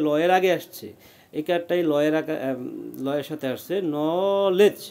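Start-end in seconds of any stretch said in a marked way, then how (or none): 4.0-4.8 নলেজ with a long first part, nooo-lej; broken into syllables. Shown as a demonstration. Teacher showing how the spelling builds the word, syllable by syllable. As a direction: stretch the "no" of নলেজ, then add "lej". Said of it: "এইভাবে ভেঙে ভেঙে".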